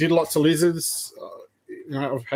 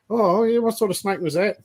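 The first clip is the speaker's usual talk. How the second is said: suspicious dad; 7 semitones higher than usual. Retold or imitated. Dad questions son about the snake, mock suspicious voice. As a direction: quiz the kid, half disbelieving.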